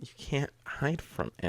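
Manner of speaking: slow, soft, spooky echo; ominous hush. Acted. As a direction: echo it like a creepy threat. Echoing the ominous warning.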